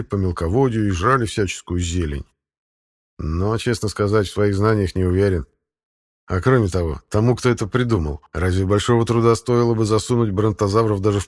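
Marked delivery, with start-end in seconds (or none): none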